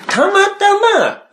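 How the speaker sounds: high, drawn-out protest; comic, slow-motion insistence; insistent excuse. Real, not acted. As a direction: stretch it out high, pleading coincidence. Insisting it was only coincidence.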